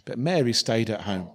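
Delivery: measured, solemn Bible reading; scripture reading. Acted. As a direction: read the Gospel passage to the congregation. Reads the Bible passage aloud.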